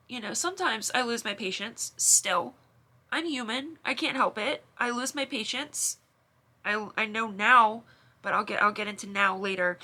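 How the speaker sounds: holding it together through tears; tearful. Real, not acted. Sister admitting she still loses patience, near tears. Still emotional after confession.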